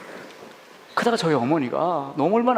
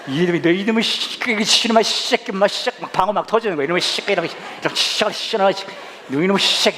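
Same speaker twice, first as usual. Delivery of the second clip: higher-pitched sputtering mock curses; lightly imitated angry mom; cursing mother; 6 semitones higher than usual. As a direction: let half-swallowed swear words burst out. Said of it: "저한테 욕을 해대기 시작하시더라고요".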